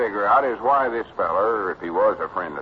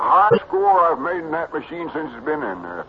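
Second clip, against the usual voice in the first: high country lad, bragging; Cedric, boastful boy; 8 semitones higher, 3 dB louder than usual. Acted. Cedric telling of his pinball score, proudly boyish. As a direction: brag in a simple, excited boy's voice.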